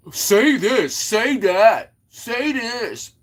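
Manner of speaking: high, sing-song mock of bossy chat; mocking chatters. Streamer mocking viewers who boss him around, high whiny put-on voice. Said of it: "I hate when people tell me what to say".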